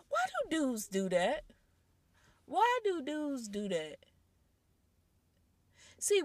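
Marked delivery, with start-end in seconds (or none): 0.1-1.4 unvoiced whisper of disbelief. Real, not acted. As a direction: breathe the question out in a whisper. Aside question, whispered.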